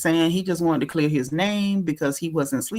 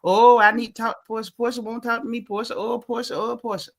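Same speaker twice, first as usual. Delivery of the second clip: whiny mock plea; mock begging for Portia's attention; mock whiny pleading. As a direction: whine her name like a needy fan. Mocking Drew begging for Portia.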